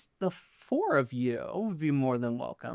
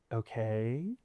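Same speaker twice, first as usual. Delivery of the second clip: bratty evil twink; 3 semitones lower, 7 dB quieter than usual. Acted. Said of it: "He's giving evil twink".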